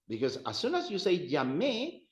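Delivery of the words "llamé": llamé with the final é accented; stress on last syllable. Shown as a demonstration. Teacher shows how it turns preterite, llamé end-stressed. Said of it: "you're turning that into I called".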